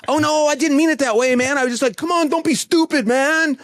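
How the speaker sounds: defensive American. Retold or imitated. New Yorker's defensive reply, imitated.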